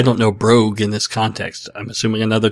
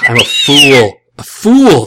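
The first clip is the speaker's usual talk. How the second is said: mock self-scolding; 7 dB louder, slower than usual. Real, not acted. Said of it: "self-mocking after the joke".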